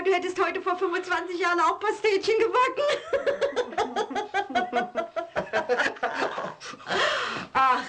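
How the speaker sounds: wife laughing at her husband. Acted. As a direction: giggle as the picture forms. Wife imagines him baking, laughs.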